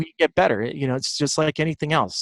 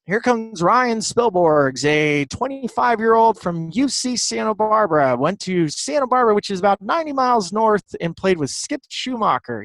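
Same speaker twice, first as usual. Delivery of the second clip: Vin Scully impression; 7 semitones higher than usual. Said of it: "and Vin's like".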